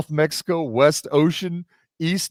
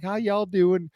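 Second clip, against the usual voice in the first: put-on higher-pitched, light Southern accent; 5 semitones higher, slower than usual. Buddy's wife saying hello at dinner, Southern accent. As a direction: imitate a sweet Southern greeting. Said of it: "Southern accent, the whole shebang".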